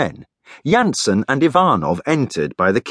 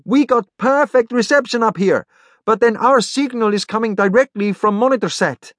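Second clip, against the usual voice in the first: high, thin voice over a comm; thin, whistly voice; 13 semitones higher than usual. Acted. Tomas explains his signal over comm, thin and whistly. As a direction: keep it thin and pitched way up. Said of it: "his voice sounding thin and whistly".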